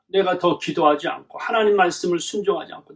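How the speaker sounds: ordinary delivery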